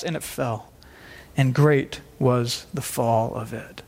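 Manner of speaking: measured, solemn reading of scripture. Acted. Reads the scripture passage aloud.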